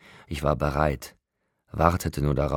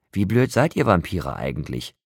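higher, louder scornful outburst; furious scorn at the vampires; angry; 7 semitones higher, 5 dB louder than usual. A narrator's reading. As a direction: shout him down in contempt. Jacob berates the vampires.

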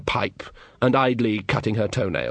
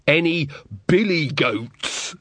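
muffled bursar; 4 semitones higher, much slower than usual. Acted.

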